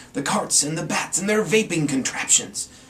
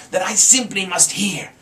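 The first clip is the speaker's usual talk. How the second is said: louder sly Grinch voice; grinning Grinch; 5 semitones higher, 5 dB louder than usual. A narrator's reading. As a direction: savour it with a grin. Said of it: "grinned the Grinch".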